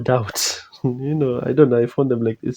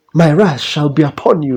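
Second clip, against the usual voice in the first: put-on loud, grand, archaic old-English heroic voice; 3 semitones higher, 5 dB louder than usual. Speaker shows how game characters talk, in mock archaic heroic speech. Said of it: "like that".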